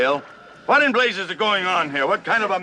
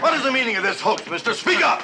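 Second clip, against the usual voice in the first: angry shout; 4 semitones higher than usual. Acted. Admiral barks at the men.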